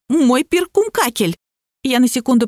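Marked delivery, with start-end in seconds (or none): 0.1-1.4 distraught wail. A narrator's reading. Voiced character laments her stolen treasure.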